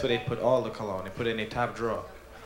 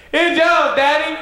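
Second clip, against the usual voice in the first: put-on high, loud shout of a thrilled child; excited kid; 11 dB louder, slower than usual. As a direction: squeal it at Daddy like a delighted kid. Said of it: "you say".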